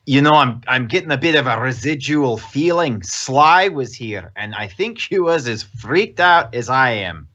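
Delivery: lightly put-on Scottish accent; Horace. Game master as Horace sharing a leftover feeling, light Scottish accent. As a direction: muse aloud in a mild Scottish accent. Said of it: "how do you do a Scottish accent".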